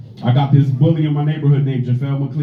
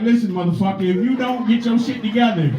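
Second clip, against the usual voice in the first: black mom; 4 semitones higher than usual. Retold or imitated. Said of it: "Black moms would be like".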